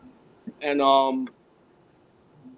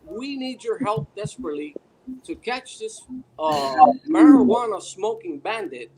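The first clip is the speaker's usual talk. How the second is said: urgent TV appeal, building louder; John Walsh; 4 semitones higher, 5 dB louder than usual. Retold or imitated. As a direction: imitate a crime-show host pleading with viewers. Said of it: "and he's talking about".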